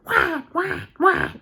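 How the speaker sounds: high squeaky mocking whack; singsong boss imitation; mocking taunt. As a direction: tease like the old boss did. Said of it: "she said".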